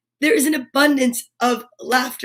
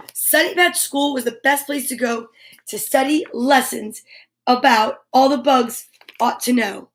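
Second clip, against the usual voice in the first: put-on reading to children. Reading picture book to kids.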